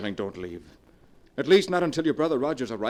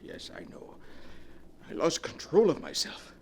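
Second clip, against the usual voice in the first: soft, lower, defeated voice; hollow remorse; 10 semitones lower, 5 dB quieter than usual. Acted. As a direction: let the life drain out of it.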